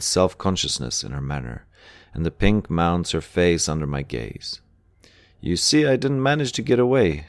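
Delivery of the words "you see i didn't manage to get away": weary. A narrator's reading. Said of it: "she says wearily".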